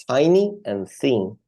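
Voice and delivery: tiny with a long ai, thin with a short i and a clear th, slowly; pronunciation contrast. Shown as a demonstration. Teacher showing the student two different sounds, slow contrast. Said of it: "la pronunciación es diferente".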